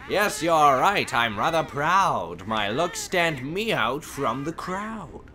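rhyming witch. Acted. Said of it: "She's really rhyming".

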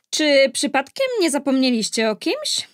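chilling booming voice. A narrator's reading. Uninvited evil fairy interrupting the christening, chilling and resonant. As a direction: ring out with icy menace. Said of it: "mrożący krew w żyłach donośny głos".

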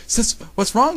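high-pitched anxious question; worried. A narrator's reading. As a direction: ask with acted alarm. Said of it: "Tsukasa asked worried".

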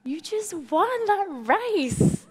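high, drawn-out tearful wail; slow, high-pitched pretend weeping; mock crying. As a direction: imitate an overcome mum crying, stretched out and high. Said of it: "like, crying".

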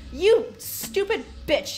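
loud, high, drawn-out insult; angry outburst. Real, not acted. Player scolding a report writer for wasting pages, angry. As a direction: stretch the insult out in exasperation.

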